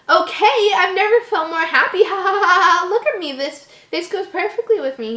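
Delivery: high, loud, breaking into manic laughter; gleeful madman cackling through his words; laughing uncontrollably. Acted. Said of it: "Jeff started laughing uncontrollably".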